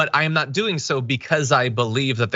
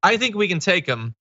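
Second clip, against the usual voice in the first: mock Cheney; 3 semitones higher than usual. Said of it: "That's Liz Cheney saying".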